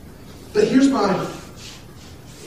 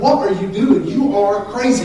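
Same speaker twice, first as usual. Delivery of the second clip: loud, higher retold scolding; mock exasperated exclamation; 4 semitones higher, 7 dB louder than usual. Wife calls out husband's odd sidewalk habit, mock exasperated exclamation.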